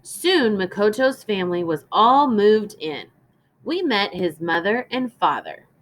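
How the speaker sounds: clear, measured storybook reading; gentle read-aloud for a class; reading to children. Acted. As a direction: read it aloud to young listeners.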